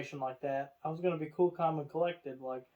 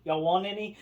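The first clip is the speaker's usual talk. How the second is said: high, louder cheery offer; mock chirpy offer; 4 semitones higher, 5 dB louder than usual. Stressed lady offering popcorn, high and cheery. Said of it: "she's like".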